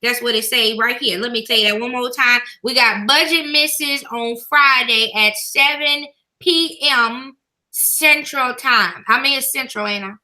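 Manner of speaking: church mother reading announcements; good mother voice. Pretend. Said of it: "put on my good mother voice".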